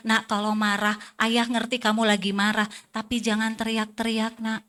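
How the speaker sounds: put-on soft, patient parent talking to a child; ayah menenangkan anak. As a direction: acknowledge the anger quietly, then gently correct. Contoh ayah menegur anak dengan tenang. (teguran ayah yang pelan dan tenang)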